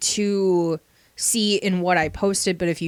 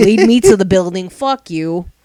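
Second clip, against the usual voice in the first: very loud put-on Bronx accent; 8 dB louder than usual. Joking about a podcast voice, doing a put-on Bronx accent. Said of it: "sound like I'm from the Bronx".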